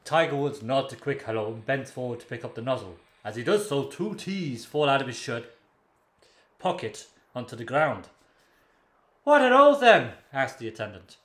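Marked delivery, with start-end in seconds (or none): 0.1-8.1 lightly Welsh-sounding storyteller; measured joke-telling with a Welsh lilt; Terry Wogan. Acted. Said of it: "do the Welsh voice". 9.2-10.1 high, loud character voice; puzzled attendant. Acted. Acted attendant in a joke.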